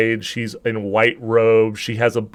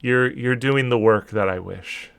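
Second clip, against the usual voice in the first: goddess laughing it off; 2 semitones lower, 5 dB quieter than usual. Acted. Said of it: "She's like".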